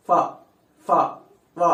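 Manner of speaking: ఫ, ఫ, వ each alone, lip on upper teeth; isolated lip-to-teeth ఫ and వ; labiodental demonstration. Shown as a demonstration. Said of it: "అలా".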